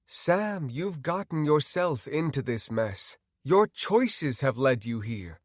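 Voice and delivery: calm, measured reproach; composed, unmoved doctor; detached doctor. Acted. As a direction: explain coolly to the patient. Doctor character admonishes.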